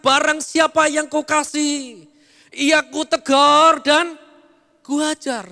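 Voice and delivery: slow, loud, solemn divine decree; preacher voicing God's rebuke, slow and loud. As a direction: declare it slowly as God speaking. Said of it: "Tuhan katakan".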